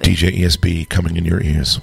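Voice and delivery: sultry radio voice. Acted. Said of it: "amazing, sultry radio voice".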